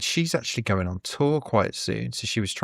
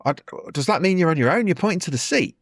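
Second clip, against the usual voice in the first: imitating the comedian; 7 semitones higher, faster than usual. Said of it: "He's like".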